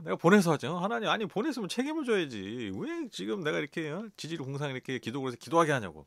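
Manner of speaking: loud, high indignant protest; arguing with God. Retold or imitated. Preacher replaying his angry prayer to God, indignant shouting. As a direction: take God to task, fast at the end. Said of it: "제가 이렇게 막 따지듯이".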